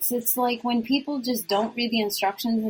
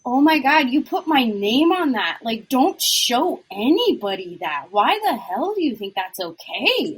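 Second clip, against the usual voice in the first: retold outrage; 5 dB louder than usual. Retelling reaction to client graphic.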